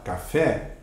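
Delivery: "café" with a lifted final FÉ; stress on last syllable. Shown as a demonstration. Teacher asking students to notice the stress, "café" stressed on FÉ. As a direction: let FÉ stand out in "café". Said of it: "Perceba ao falar".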